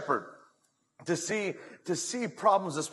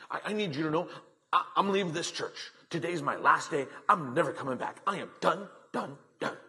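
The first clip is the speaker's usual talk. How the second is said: lightly voiced indignant churchgoer; huffy and puffy. Upset woman quitting her church to the pastor, mildly huffy. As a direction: put on a mild huff, broken into short bursts. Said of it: "all huffy and puffy".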